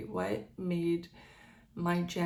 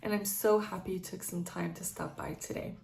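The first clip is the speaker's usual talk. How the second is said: blocked nose from a cold; talking through a stuffed-up nose; stuffy nose. Real, not acted. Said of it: "I know I sound kinda stuffy".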